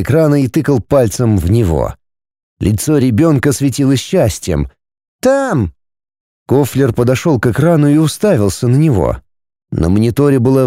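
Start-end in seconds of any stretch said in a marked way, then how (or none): 5.2-5.7 put-on high child's call; boy calls parents, excited; little boy calling. A narrator's reading. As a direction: call out to mum and dad. Boy points.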